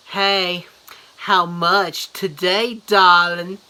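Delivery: slow, mocking Japanese-accented come-on, last word loud; hammed-up Japanese accent street call. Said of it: "not making fun of how they talk".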